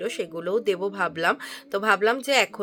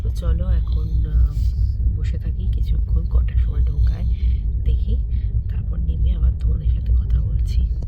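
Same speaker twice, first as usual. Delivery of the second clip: speaking softly. Real, not acted. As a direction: keep it down so nobody sleeping nearby wakes. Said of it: "আমি এখনো আস্তে আস্তে কথা বলছি". (ঘুমন্ত লোকের পাশে আস্তে, চাপা গলায়)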